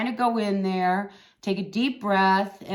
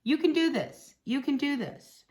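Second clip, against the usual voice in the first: encouraging; 6 semitones higher than usual. Shown as a demonstration. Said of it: "encouraging repeat".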